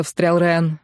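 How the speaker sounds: plain reading voice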